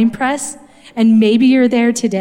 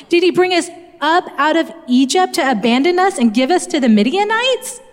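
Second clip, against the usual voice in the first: higher, pleading, incredulous voice; Gideon complaining; 5 semitones higher than usual. Retold or imitated. Gideon questioning the angel, higher and incredulous. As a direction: voice Gideon's bitter disbelief. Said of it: "Gideon's response was".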